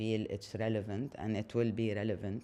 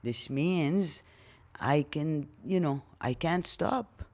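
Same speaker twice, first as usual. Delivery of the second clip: higher, louder, frantic rush; panicked need to do more; 5 semitones higher, 5 dB louder than usual. Retold or imitated. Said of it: "And then you feel like".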